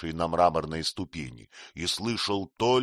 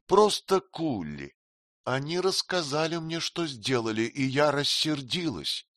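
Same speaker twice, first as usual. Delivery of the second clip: put-on a higher, coy young queen; lightly voiced queen, teasing and frank; Sitabhai, lightly voiced; 7 semitones higher than usual. (слегка изображённая царица, кокетливо)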